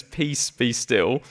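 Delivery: slow, calm and hushing; calm command. Shown as a demonstration. Jesus calming the storm, slow calm command. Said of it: "then we go completely silent".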